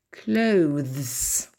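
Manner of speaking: "Clothes" drawn out with a voiced th before the s; taking time. Shown as a demonstration. Teacher on a very difficult word, "Clothes" drawn out carefully. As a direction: linger through the th-s ending of "Clothes". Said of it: "Prendre son temps".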